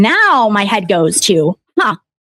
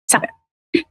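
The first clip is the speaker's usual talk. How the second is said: whisper; 6 dB quieter than usual. Real, not acted. Defending brother, sudden drop.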